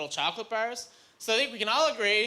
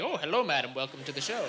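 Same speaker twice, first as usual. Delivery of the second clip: overly polite; 4 semitones lower than usual. Retold or imitated. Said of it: "overcompensating, too polite".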